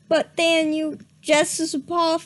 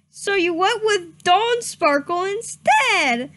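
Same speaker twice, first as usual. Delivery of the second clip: mild yell; 5 semitones higher than usual. Acted. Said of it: "yelled Starpaw".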